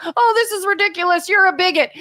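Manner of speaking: a hint of online outrage, mocked; mock outraged reply. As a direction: fire back like a self-righteous poster. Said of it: "someone else is like".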